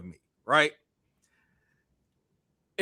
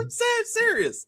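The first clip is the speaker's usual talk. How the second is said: high, slow insistence through laughter; laughing protest; slower than usual. Real, not acted. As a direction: claim you're serious while still laughing.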